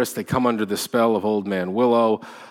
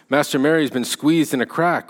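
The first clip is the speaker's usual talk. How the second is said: urgent cry; 5 semitones higher than usual. Acted. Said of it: "cried Sam".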